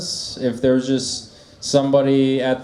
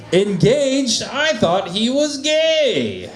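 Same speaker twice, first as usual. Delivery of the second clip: high, surprised, teasing; mock surprise; 8 semitones higher, slower than usual. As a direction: act shocked and amused. Acted crowd work reaction.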